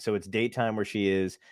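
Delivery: put-on low, measured explaining, as if to kids; lightly hammed-up kids' show host; children's special presenter. Host explaining time zones to listeners like a children's special. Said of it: "doing it like a children's special".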